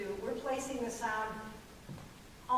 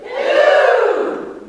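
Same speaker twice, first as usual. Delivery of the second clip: higher, louder operatic hello; cultured back placement; 12 semitones higher, 20 dB louder than usual. Shown as a demonstration. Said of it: "it's back further".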